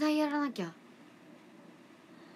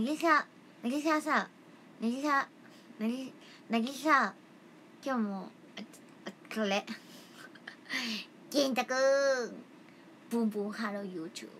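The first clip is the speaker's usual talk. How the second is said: past self impression. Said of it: "一年前のなぎちゃん".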